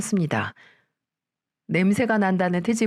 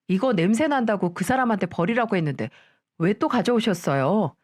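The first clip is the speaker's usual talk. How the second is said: sneering daughter-in-law. Acted. Daughter-in-law complaining about smell.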